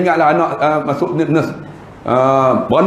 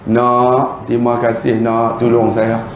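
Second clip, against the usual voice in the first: put-on lower, tender thanks of an old man; grateful old man; 5 semitones lower, slower than usual. Pakcik tua berterima kasih. (pakcik tua berterima kasih dengan suara rendah)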